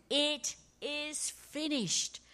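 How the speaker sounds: high, slow victorious cry; cry of victory. Retold or imitated. Jesus on the cross, a slow high cry of victory. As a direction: proclaim it as a triumph. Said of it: "cry of victory".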